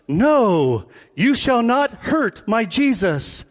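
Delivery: lightly voiced heroic Peter, slow; a hint of noble movie hero; slow, solemn mock hero line. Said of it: "sometimes we read the Bible this way".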